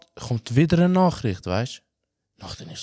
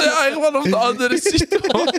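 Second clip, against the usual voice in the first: much higher and louder, laughing; 13 semitones higher, 6 dB louder than usual. Retold or imitated. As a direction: blurt it out laughing. Laughing retelling, high. (lachend, viel höher und lauter)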